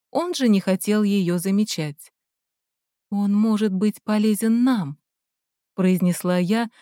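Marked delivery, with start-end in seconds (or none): 3.1-5.0 deliberate emphasis on "нам"; single out "нам" at the end, stressing it; stress on last word. A narrator's reading. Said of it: "намеренно выделив последнее слово". (с нажимом на слово «нам»)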